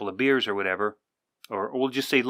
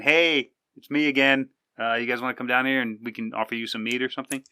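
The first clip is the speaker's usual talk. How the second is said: cheerful greeting; 2 semitones higher than usual. Retold or imitated. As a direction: greet the gods like old friends. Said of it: "It's almost like saying".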